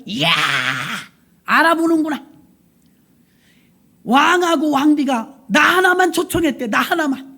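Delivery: smug, pleased boast, pitch up; a lightly voiced proud general; gloating Haman. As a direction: crow over being the only one invited. Preacher voicing proud Haman.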